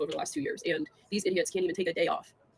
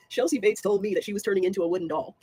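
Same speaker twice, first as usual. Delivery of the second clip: cracking up over an absurd claim; laughing retelling; 4 dB louder than usual. Real, not acted. Vlogger retelling the wooden doll claim, cracking up. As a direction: struggle to say it through real laughter.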